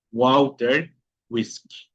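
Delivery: "Walter" as "uauter", "whisky" as "uiski". Shown as a demonstration. Teacher repeating examples for students, "Walter, whisky" with U sound. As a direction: start "Walter, whisky" on an U glide. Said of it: "la vocal U".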